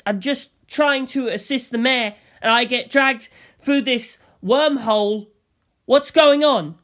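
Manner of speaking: a killer pretending to be an innocent secretary; feigned innocence. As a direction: act the wronged secretary. Kira feigning ignorance.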